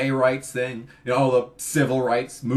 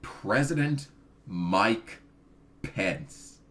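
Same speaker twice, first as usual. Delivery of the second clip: slow build, the last name dropped to a hushed breath; dramatic hush; 4 semitones lower, 5 dB quieter, much slower than usual. Acted. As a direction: reveal it slowly like a horror, fading out. Dreaded name revealed.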